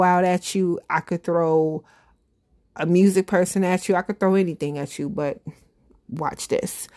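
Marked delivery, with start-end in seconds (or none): 6.1-6.9 softer, unvoiced teaser whisper. Real, not acted. Hosting the Who Dat segment, hushed whispered teaser. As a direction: drop to a secretive whisper.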